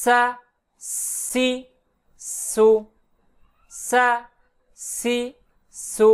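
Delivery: "সা, সি, সু" with a long thin whistling s; thin hissing sin. Shown as a demonstration. Teacher demonstrates sin with thin sound, hissing pronunciation. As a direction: draw out a light s before each of "সা, সি, সু". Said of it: "পাতলা আওয়াজে বলতে হবে".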